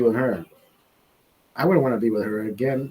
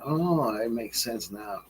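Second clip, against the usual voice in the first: quiet realisation; 3 semitones lower, 9 dB quieter, slower than usual. Retold or imitated.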